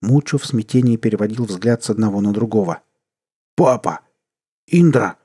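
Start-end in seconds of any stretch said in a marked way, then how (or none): 3.6-5.2 louder, much higher frantic yell. A narrator's reading. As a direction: scream it in panic at both. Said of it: "заорал парень". (громкий панический крик)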